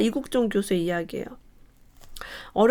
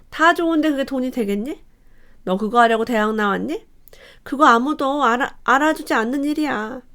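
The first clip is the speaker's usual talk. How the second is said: dismissive parent; 2 semitones higher than usual. Shown as a demonstration. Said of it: "이렇게 얘기하면 되겠어요?".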